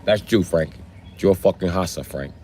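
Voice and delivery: lightly voiced movie gangster with Latino accent; Scarface. Gangster telling Frank what he is, light Latino-accented impression. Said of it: "sound like Scarface".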